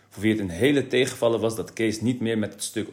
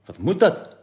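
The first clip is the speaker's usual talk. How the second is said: put-on higher, louder puzzled boy; a boy baffled by a surprise box; 8 semitones higher, 5 dB louder than usual. A narrator's reading. Kees wondering about the box, higher and puzzled.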